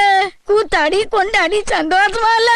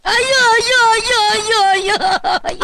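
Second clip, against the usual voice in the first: keen for the dead husband; mourning wail; 3 semitones higher than usual. Acted. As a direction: grandmother wailing in lament. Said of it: "ஒப்பாரி வச்சுக்கிட்டு".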